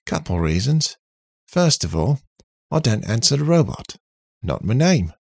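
loud, contrary robot voice; cocky robot character. Acted. Robot refusing to answer to "robot", cocky. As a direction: object with cheeky confidence, pitch jumping high.

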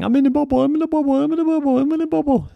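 high repeated echo, fading. Acted. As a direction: let it echo around you. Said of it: "it kept echoing".

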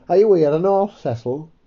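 squeaky lad hailing Cecil; high, loud greeting; Tommy's voice. Acted.

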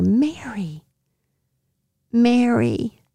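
tenderly calling her name; kind, emphatic. Acted. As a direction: say the name with gentle weight. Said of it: "he's saying it with kindness".

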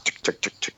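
soft, breathy tick sounds mimicking wheels on steps; quiet mock clicking of skates on stairs; imitated rollerblade ticks. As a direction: tap out the rollerblade clicks under your breath.

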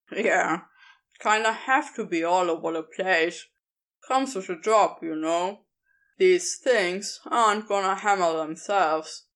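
casual, a touch sly; lightly voiced Crowley. Crowley voiced lower, laid back.

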